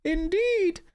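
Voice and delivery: very high, squeaky wise woman; a shrill mystical hermit greeting; Hild voice. Acted. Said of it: "I'm also voicing every character".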